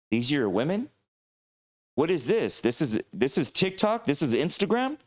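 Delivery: high, scandalised questions; be openly shocked and baffled; a time-travelling warrior scandalised by social media, high and shocked. Pretend. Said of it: "warrior reacts to modern women".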